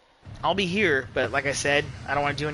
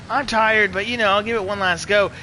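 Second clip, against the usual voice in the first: lightly voiced rider, higher and louder; Ken Roxon; 4 semitones higher, 4 dB louder than usual. Streamer retelling a rider's third run, light impression. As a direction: quote him with a slight put-on lift. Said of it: "he was just like".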